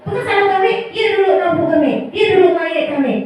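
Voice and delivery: lightly voiced child arguing back; defensive pupil. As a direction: push the blame onto the other kid. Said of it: "Langsung gitu dia tuh".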